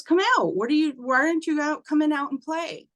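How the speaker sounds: put-on high, quick child's call to invisible playmates; little girl calling. Girl calls to unseen boys in doorway, high and eager. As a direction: pipe up like a small girl calling friends. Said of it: "little girl calling to empty doorway".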